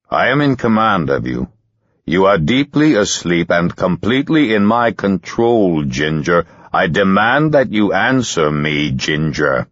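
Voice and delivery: hard, commanding voice; stern command. Acted. Hypnotist to Ginger, stern and commanding. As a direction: take full control of her. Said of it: "He became very stern".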